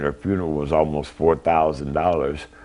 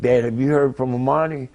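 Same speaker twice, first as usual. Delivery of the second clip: retold worried question, pitched higher; imitating his daughter's anxious call, a bit raised; upset daughter; 8 semitones higher than usual. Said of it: "she was kinda upset".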